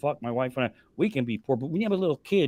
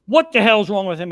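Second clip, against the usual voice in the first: alarmed lady; 4 semitones higher, 8 dB louder than usual. Retold or imitated. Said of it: "And then she goes".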